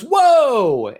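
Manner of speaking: high, loud startled whoa; trainer's shocked whoa at the shoulder blades. Retold or imitated. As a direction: blurt it out like you just saw something shocking. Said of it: "he goes".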